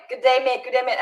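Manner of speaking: quick-fire "Good day, mate", said twice; quick imitated greeting. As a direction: rattle off the greeting like everyone else. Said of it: "everybody was so quick".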